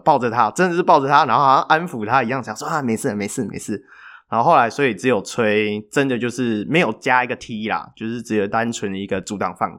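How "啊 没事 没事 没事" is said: soothing murmur. Retold or imitated. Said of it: "耳朵旁边好像悄悄话这样".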